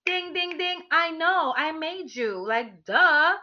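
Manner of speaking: high, sing-song smug ding ding; smug inner voice. Retold or imitated. In her head, answering her partner with smug glee. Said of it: "I'm like".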